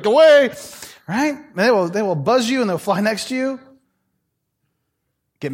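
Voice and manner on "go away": louder and higher, shooing something off; shooing shout. Retold or imitated. Preacher shooing a hummingbird from his nose, loud and high. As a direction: snap it out to chase a bird away. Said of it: "you're like".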